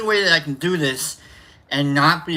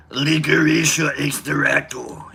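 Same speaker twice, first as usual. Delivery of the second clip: Cookie Monster voice; slower than usual. Pretend. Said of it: "I can make it sound like".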